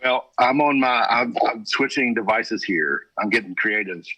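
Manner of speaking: tinny, metallic phone line; tin can voice. Real, not acted. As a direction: sounds like calling in. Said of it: "you sound like you're in a tin can".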